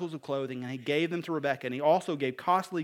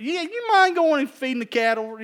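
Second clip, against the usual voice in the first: redneck husband; 11 semitones higher, 9 dB louder than usual. Acted. Preacher mocks a redneck husband asking about the cattle, hammed-up. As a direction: play the lazy redneck husband.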